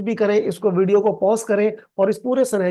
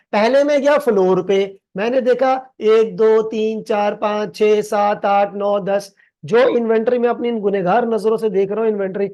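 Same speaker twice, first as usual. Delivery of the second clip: loud counting; 4 dB louder than usual. Acted. Acts out counting in the warehouse.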